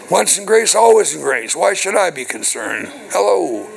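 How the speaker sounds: mock complacent believer. Mimicking complacent church members' excuses.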